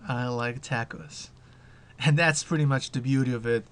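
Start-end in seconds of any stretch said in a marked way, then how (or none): 0.1-1.3 slow, soft robotic computer voice; old speech synthesizer. Pretend. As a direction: say it like a talking computer. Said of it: "let's make the computer say something different".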